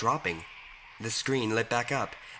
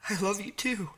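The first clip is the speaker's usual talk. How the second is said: hoarse mutter; 10 semitones higher than usual. A narrator's reading. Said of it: "muttered the man in a hoarse, scratching voice".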